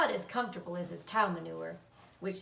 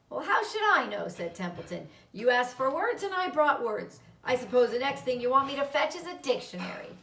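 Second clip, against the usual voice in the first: huffy rat; 3 semitones higher, 4 dB louder than usual. Acted. Templeton snapping back at Charlotte.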